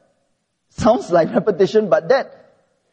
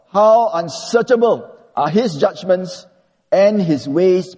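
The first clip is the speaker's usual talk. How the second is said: scripture reading; 3 semitones higher than usual. Acted. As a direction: read it out as a reverent proclamation. Preacher reads Romans eleven aloud.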